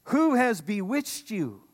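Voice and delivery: high, slow astonished question; shocked Paul. Retold or imitated. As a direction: sound stunned by their betrayal. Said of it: "They're like".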